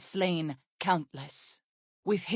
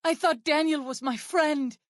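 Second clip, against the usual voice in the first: higher, hurt and furious at a friend's betrayal; indignant outrage; 7 semitones higher than usual. Acted. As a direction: burst out, how dare he. Betrayed by her friend Daniel.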